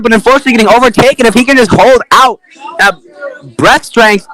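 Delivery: energetic sportscaster call of a straw-boat race; live play-by-play. Acted. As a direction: race commentator calling the action.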